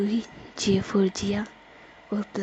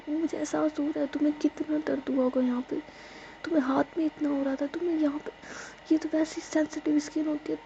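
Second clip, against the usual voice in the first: tearful pleading; 6 semitones higher, faster than usual. Acted. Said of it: "वो रोने लग जाती है".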